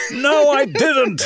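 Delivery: high, slow exasperated retort; recorded voice. Retold or imitated. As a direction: snap back as the recorded line. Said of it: "it was".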